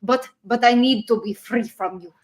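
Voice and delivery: mock Russian accent, first go; lightly hammed-up Russian accent. Reading a chat message to John, playful Russian accent. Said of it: "can I read this in a Russian accent".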